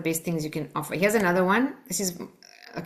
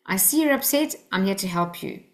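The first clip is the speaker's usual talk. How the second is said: reassuring. Shown as a demonstration. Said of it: "So try that".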